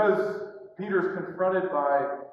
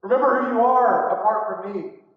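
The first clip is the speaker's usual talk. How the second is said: loud "Remember who you are apart from me"; firm, forceful reminder on "Remember who you are"; emphatic repeat; 2 semitones higher, 6 dB louder than usual. Retold or imitated. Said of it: "he repeats it for emphasis".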